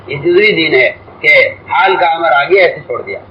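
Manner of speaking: ordinary talk, nothing marked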